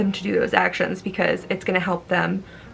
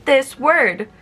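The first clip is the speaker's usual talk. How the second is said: put-on teacher to child; 3 semitones higher, 3 dB louder, slower than usual. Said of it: "if you're teaching a five-year-old".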